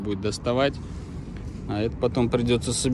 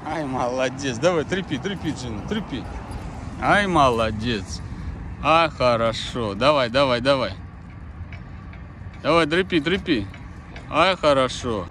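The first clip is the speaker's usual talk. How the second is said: talking to a dog. Real, not acted. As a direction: cheer the dog on gently. Praising dog tugging toy.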